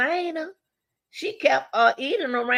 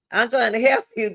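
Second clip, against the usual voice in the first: a little louder, sceptical mock of the killer's words; mocking quote; 3 semitones higher, 4 dB louder than usual. Mocking the intruder's words to viewers, sceptical. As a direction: repeat it like it doesn't add up. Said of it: "That don't even sound right".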